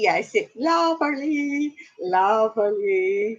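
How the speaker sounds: lightly put-on, drawn-out "lovely"; musical quote. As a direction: quote a show tune, stretching the words. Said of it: "You know what that's from".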